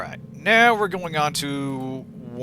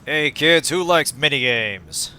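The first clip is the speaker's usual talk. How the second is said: loud, slow, hammed-up game show host; cheesy kids' show host; 3 dB louder, much slower than usual. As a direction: pitch it like a kids' TV presenter. Mock kids' host intro to minigame.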